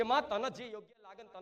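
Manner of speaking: very soft, murmured prayer of surrender; hushed surrender. Retold or imitated. Devotee quietly surrendering to the mother goddess, hushed. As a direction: sink the voice to a near murmur as you hand it all over.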